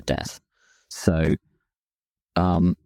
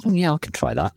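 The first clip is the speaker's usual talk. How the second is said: light imitation of the wife, much higher; wife agreeing; 12 semitones higher than usual. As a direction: play her easy yes in a higher voice. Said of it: "She said".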